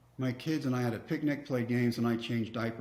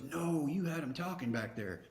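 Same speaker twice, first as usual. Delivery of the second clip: laughing; 4 semitones higher, 4 dB quieter than usual. Retold or imitated. Young catcher excitedly praising him.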